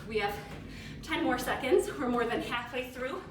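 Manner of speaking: loud coach call over the workout; calling out time. Real, not acted. Coach urges the class through the squats, calling out loud. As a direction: shout the time left to push them on.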